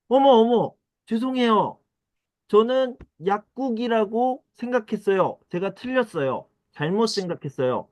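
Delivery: high, flustered "oh my" apology. Acted. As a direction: play the embarrassed customer caught out. Embarrassed customer apologizing. (당황해서 높은 목소리로 사과)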